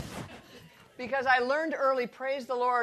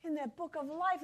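quiet prayer; 6 dB quieter than usual. Shown as a demonstration. Teacher demonstrating prayer, soft and hushed. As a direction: murmur a thankful prayer. Sharing how she prays scripture.

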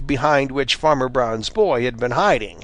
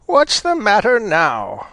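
snapping; 8 semitones higher than usual. A narrator's reading. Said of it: "snapped old Granny Fox".

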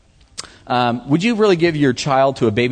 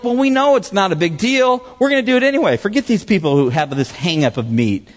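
imitated arrogance; 5 semitones higher than usual. Preacher voices the arrogant Corinthians dismissing others, mock arrogant. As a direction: brush the others off like a know-it-all. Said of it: "they were arrogant people".

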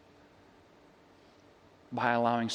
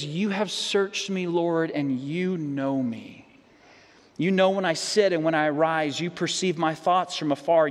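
scripture reading. Real, not acted. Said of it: "listen to how David expresses".

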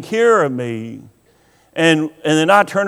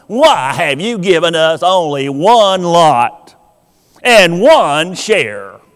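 whiny complaining; 2 semitones lower than usual. Retold or imitated. Preacher voicing the tribe's complaint, whining. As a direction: act out their grumbling, dragging it out. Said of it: "I can almost hear them saying it".

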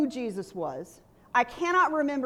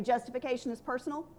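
call to repeat; 6 dB quieter, faster than usual. Shown as a demonstration.

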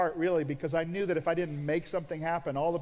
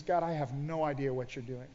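surrendered prayer; 2 semitones lower, 5 dB quieter than usual. Retold or imitated. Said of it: "I prayed a prayer".

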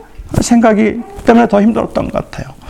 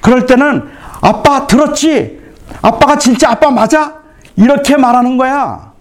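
raised, heated scolding of a son; retold scolding; 4 semitones higher than usual. Father scolding his son over an apology, heated. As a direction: scold the boy as a frustrated father. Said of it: "제가 화가 나서 제 아들한테 제가 소리를 쳤어요".

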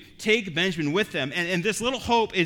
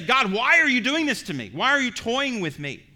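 accusing plea; 7 semitones higher, 6 dB louder than usual. Retold or imitated. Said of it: "they say".

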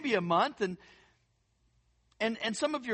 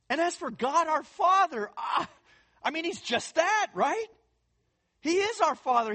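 loud proclamation; 6 semitones higher, 3 dB louder than usual. Real, not acted. Preacher proclaims God as Father.

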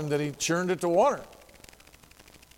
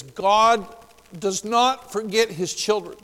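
high, loud booming divine voice; voice of God; 6 semitones higher, 5 dB louder, slower than usual. Retold or imitated. Preacher voicing God's promise to the dying fisherman, booming and high. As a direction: proclaim it like God speaking from above.

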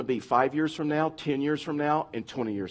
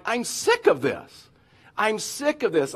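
drawn-out, higher-pitched mock complaint; fed up; 6 semitones higher, slower than usual. Preacher voicing Israelites tired of manna, fed up. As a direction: play people fed up with it all.

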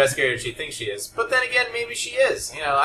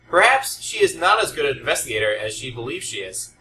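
mock dramatic reading. Shown as a demonstration. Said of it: "dramatic reading".

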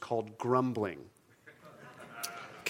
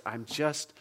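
understated weariness, slightly lowered; weary inner groan; 3 semitones lower, 4 dB quieter than usual. Acted. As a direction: voice a tired sufferer, low-key. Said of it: "there's this groan inside of you that says".

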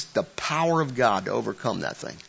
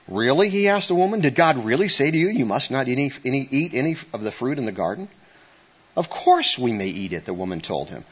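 scripture reading; 2 semitones higher than usual. Acted. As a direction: read it out like scripture. Reads Genesis aloud to congregation.

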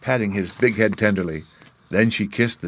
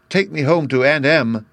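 eager command; 6 semitones higher than usual. Acted. Dorothy commands the shoes.

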